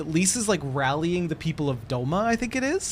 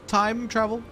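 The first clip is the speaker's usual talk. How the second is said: "Time travel" quicker, moderately high; milder repeat; 5 semitones higher, slower than usual. Pretend. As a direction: try "Time travel" as a lighter question. Repeats it less drawn out.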